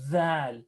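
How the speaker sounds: dhal with the tongue out, buzzing; tongue sticking out. Shown as a demonstration. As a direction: say "dhal" with the tongue between the teeth. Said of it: "Notice my tongue is out".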